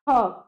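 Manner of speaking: ह as an isolated aspirated "ha"; visarga sound. Shown as a demonstration. Teacher repeating the visarga sound, aspirated syllable. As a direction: release ह alone with a puff of air. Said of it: "ह की ध्वनि निकलती है".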